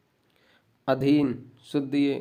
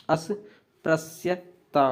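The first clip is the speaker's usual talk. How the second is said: drawn-out, syllable by syllable; slow dictation; much slower than usual. Shown as a demonstration. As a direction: break अस्पृश्यता into slow, careful pieces. Spelling dictation, word repeated slowly.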